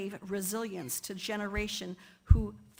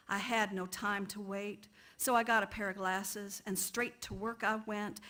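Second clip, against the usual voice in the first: put-on poem read in a light dialect accent; Chloe's dialect accent. Poet reads an excerpt in the speaker's voice, lightly accented dialect. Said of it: "read it with an accent".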